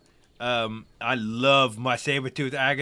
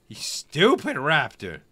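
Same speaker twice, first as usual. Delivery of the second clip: loud, higher taunting boast; mock villain boast; 3 semitones higher, 7 dB louder than usual. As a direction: gloat over the dumb raptor.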